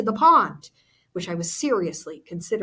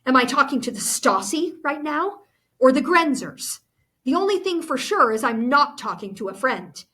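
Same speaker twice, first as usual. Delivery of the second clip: louder, higher, bitter questioning, slowing at the end; angry accusation; 4 semitones higher, 4 dB louder than usual. Acted. Goethe confronting Anna about spying for the Stasi, angry. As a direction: throw the betrayal in her face. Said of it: "Goethe's mad".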